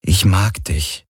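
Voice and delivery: slow, gentle reassurance; calm and gentle. A narrator's reading. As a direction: say it calmly and tenderly, taking your time. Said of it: "sagte er ruhig und sanft". (ruhig und sanft)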